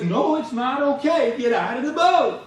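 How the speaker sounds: mock frustration, spelling it out; frustrated shout. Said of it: "in frustration starts speaking English".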